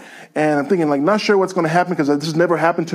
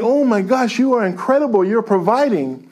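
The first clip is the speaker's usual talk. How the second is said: amazed joy; 4 semitones higher than usual. Retold or imitated. Amazed as the cup fills with cash.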